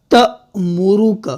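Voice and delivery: slow, with a glottal catch on तमुरुक. Shown as a demonstration. Quran teacher shows students the glottal catch. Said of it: "झटके के साथ पढ़ेंगे".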